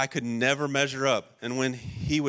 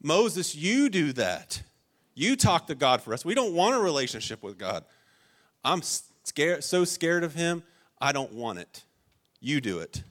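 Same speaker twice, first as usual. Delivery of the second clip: higher, pleading, a touch of panic; scared Israelites; 4 semitones higher than usual. Retold or imitated. Terrified Israelites begging Moses to talk to God, acted fear. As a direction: beg Moses to go instead. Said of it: "They're like".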